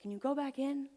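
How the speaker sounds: a light imitation of an urgent coach; coach calling. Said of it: "My coach".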